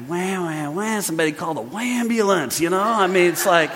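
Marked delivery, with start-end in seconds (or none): 0.1-2.6 soft whiny mock crying; mock crybaby whine. Preacher mocks complainers with a soft crybaby whine. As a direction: whimper it like a big baby.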